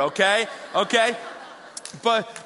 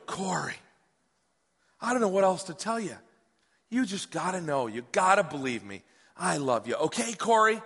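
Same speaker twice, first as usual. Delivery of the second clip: worn-out pleading dad. Retold or imitated. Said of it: "I'm kinda all freaked out".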